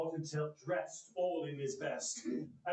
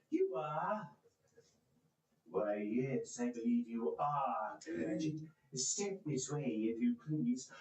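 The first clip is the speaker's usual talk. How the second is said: a lightly voiced stern master, lower, slow; mock stern; 5 semitones lower, slower than usual. Scrooge to tardy Bob, mock stern lower voice. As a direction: pretend to scold the clerk. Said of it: "as near as he could feign it".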